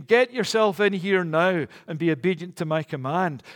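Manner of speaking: a hint of a commanding call through the door; mock holler. Father calling a son in from a distance, mild mock shout. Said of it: "He doesn't holler from a distance".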